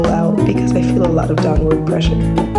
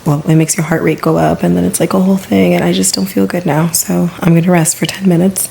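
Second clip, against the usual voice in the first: out of breath. Real, not acted. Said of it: "I can't breathe".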